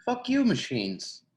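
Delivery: playfully exaggerated slow curse; mock cursing. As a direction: drag it out, cursing the machines in jest.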